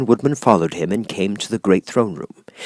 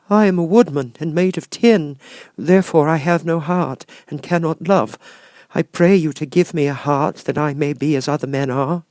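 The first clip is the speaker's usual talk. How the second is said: Tin Woodman pleading; 8 semitones higher, 3 dB louder than usual. Acted.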